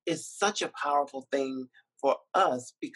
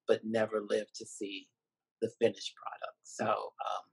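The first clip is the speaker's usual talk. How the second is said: getting emotional; 3 semitones lower, faster than usual. Real, not acted. Filmmaker remembering those who died before the premiere, getting emotional. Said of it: "I'm getting emotional about that".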